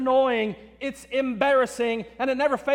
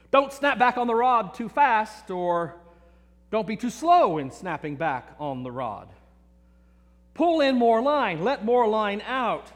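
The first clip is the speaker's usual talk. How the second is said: mock critical dad. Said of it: "He was constantly critiquing my casting skills".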